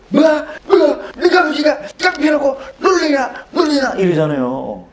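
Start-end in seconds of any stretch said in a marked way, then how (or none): 0.1-3.9 angry shouting teacher. Retold or imitated. Teacher in the film yells at the student, furious shout. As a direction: roar it like the film's teacher. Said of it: "이 새끼가 하면서 막 대고".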